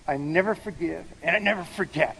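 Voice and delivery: mild imitation of angry vowing; angry quote. Preacher quoting an unforgiving person to the congregation, angrily. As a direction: build into a mock-angry, hard-hit finish. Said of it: "they said it really angrily".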